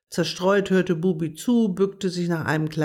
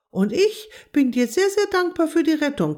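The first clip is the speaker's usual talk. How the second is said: higher, louder grateful frog voice; a little frog croaking heartfelt thanks to his rescuer; 10 semitones higher, 4 dB louder than usual. A narrator's reading. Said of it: "quakte Quappi".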